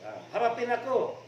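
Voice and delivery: put-on loud high drunken taunt; drunk's challenge. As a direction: bellow the dare at the neighbours. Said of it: "Sabi niya / naghamon ng away".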